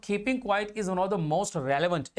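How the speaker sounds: slow, spaced words for students to copy; slow dictation pace. Shown as a demonstration. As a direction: read it out slowly like notes. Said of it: "dictating notes slowly".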